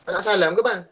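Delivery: wife snapping at her husband as he leaves, curt; curt wife's demand. Shown as a demonstration. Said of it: "janganlah isteri kata".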